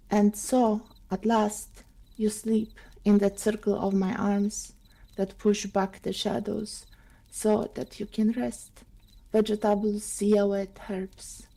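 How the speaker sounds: measured poetry recital with pauses between phrases; poem reading. Acted. Reader sharing a Neruda sonnet with listeners, measured recital. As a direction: read it as verse, phrase by phrase, softening at the close.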